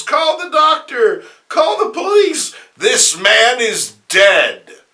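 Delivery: high, loud panicked screams; screaming woman. Acted. Offstage woman screaming that the man is dead. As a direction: yell for help in horror. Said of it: "a woman screams".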